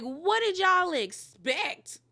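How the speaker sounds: high, drawn-out disbelief; incredulous. Retold or imitated. Reality show fan reacting to the cast's argument, incredulous. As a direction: stretch it out in high-pitched exasperation. Exasperated question about the cast.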